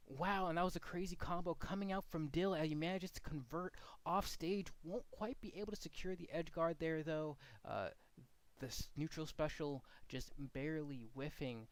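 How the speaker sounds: upbeat esports casting call, building through the line; play-by-play commentary demo. Shown as a demonstration. Coach demoing casting inflection to students, lively commentary. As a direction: cast it like live commentary, ending on a rise. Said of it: "the third way of doing it is through inflection. If I say".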